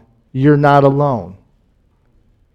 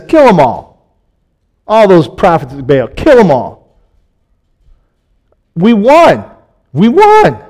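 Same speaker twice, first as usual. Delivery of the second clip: louder, higher victorious cry rising to a yell; exultant shout; 4 semitones higher, 5 dB louder than usual. Retold or imitated. Elijah exulting to his people after the fire, shouting. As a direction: crow over the win.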